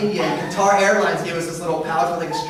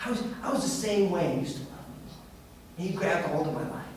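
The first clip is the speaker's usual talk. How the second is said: humble prayer; 9 dB quieter than usual. Pretend. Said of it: "we should say".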